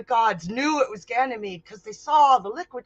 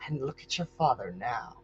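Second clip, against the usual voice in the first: cold contempt; 4 semitones lower, 4 dB louder than usual. Acted. Goddess belittling a mortal.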